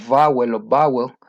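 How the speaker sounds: first "vowel" with lip-on-teeth v, second "vowel" with a b, as in bowel; v versus b contrast. Shown as a demonstration. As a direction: contrast the two: "vowel" with v, then "vowel" starting with both lips. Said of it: "discrimina la B labial de la B labiodental".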